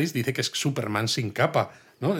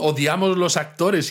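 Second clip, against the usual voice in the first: higher, louder and slow declaration of hatred; hammed-up hatred; 6 semitones higher, 4 dB louder than usual. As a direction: drag the words out in mock loathing. Acted line from the film. (odio exagerado, agudo, fuerte y lento)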